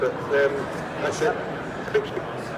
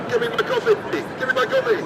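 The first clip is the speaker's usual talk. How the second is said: angry shout; faster than usual. Pretend. Robot demands coffee, yelling.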